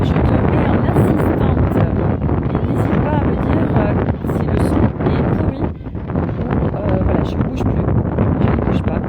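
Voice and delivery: shouting over wind. Real, not acted. Windy beach, checking the sound.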